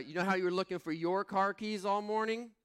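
mock wife teasing about the keys; imitating wife. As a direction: tease him like the amused wife. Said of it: "She said".

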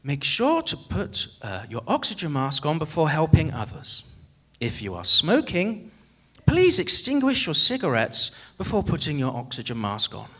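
a light imitation of an old cabin announcement; preacher mimics a European cabin crew announcement, lightly voiced; eighties airline announcement. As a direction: read it like an eighties flight attendant over the intercom. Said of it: "it would have sounded like this".

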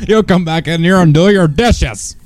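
stern sitcom dad, slow; lightly voiced scolding 1950s father. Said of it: "like a nineteen fifties dad".

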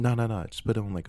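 quick firm denial; insistent. Real, not acted. Narrator answers listener, insisting.

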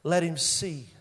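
lightly acted plea to God, unhurried; praying. Elisha praying for his servant's eyes, slow and solemn. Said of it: "Elisha prayed".

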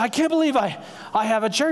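mildly hammed-up amazement; imitating a kooky patient's delighted disbelief; so excited. Groggy son answering his dad, so excited. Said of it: "he's so excited".

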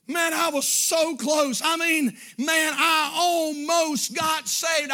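slow, drawn-out anguished lament; regretful cry from hell; lost soul's regret. Acted. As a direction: mourn the missed chance. Voicing a lost soul.

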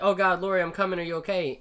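loud, high urgent call; mock panic. Retelling Dan running to Laurie, loud mock panic. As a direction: call ahead in hammed-up alarm. Acts out Dan rushing to help.

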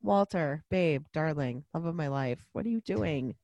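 soft, low appeal to a sweetheart; gentle mock pleading. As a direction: reason quietly with a hopeless darling. Mock pleading with the movie character.

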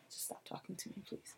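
whispered, drained plea; exhausted whisper. Retold or imitated. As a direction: barely voice it, worn down. Begging mom to stop.

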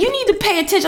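high-pitched indignant scolding; retold snapping. Mother scolding the driver who hit her, retold snapping. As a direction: replay telling off a careless driver. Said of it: "like, snapping".

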